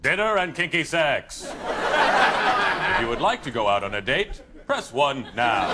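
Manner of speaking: automated phone menu voice; movie phone guy. Acted. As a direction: read it like a recorded phone line. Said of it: "the movie phone guy".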